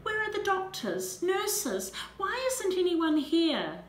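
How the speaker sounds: high, loud frantic calling out; panicked cry. A narrator's reading. Mother searching the hospital for doctors, high panicked shouts. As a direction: demand it in rising panic.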